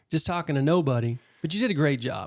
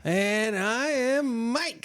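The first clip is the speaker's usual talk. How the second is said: lizard man; 7 semitones higher, much slower than usual. Acted. Co-host copies slow intro.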